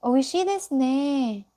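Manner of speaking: example phrase. Shown as a demonstration. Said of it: "you want to say".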